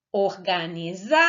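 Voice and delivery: "Organizar" called slowly with ZAR held long; slow drawn-out call of "Organizar", rising on ZAR. Shown as a demonstration. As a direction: call "Organizar" like a name, stretching the final ZAR. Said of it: "fazer a técnica de chamar".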